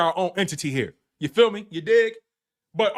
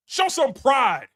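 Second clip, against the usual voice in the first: slow mock plea; 4 semitones higher, much slower than usual. Mocking plea to Cowboys.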